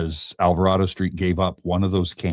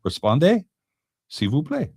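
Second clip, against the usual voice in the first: reading Derek's comment; 10 semitones higher than usual. Retold or imitated. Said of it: "Derek says".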